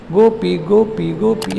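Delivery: "गोपी" chanted over and over, two even beats each; repeated in syllables. Shown as a demonstration. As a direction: repeat "गोपी" as a steady two-beat drill. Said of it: "तीन चार बार बोल के देख लो".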